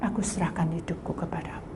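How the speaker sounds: whispered low surrender; tearful surrender. Acted. Fallen sinner surrendering to God, whispered. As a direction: breathe the prayer out, broken. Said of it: "dia menangis".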